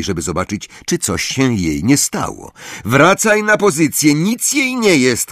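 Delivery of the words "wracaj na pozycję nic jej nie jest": high-pitched captain's yell; shouted order. A narrator's reading. Angelina sending Ron back to position, shouting high. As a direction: shout the player back into place. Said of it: "krzyknęła Angelina".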